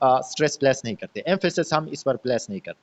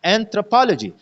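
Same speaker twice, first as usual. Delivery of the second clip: एंथ्रोपोलॉजी with थ्रो, लॉ and जी weak, पो stressed; unstressed syllable demo; 4 semitones higher, 3 dB louder than usual. Shown as a demonstration. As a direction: lift पो in एंथ्रोपोलॉजी, let थ्रो, लॉ and जी go light. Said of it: "ये तीनों unstressed syllables है". (एंथ्रोपोलॉजी में पो पर ज़ोर, थ्रो, लॉ, जी हल्के)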